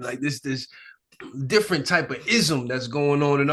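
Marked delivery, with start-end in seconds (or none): 0.0-0.7 soft unvoiced aside; whisper. Real, not acted. Telling the host about the ism in a whisper. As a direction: drop to a whisper mid-thought.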